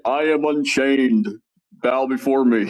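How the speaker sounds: slow, grand villain proclamation; dark lord. Retold or imitated. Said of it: "basically, basically".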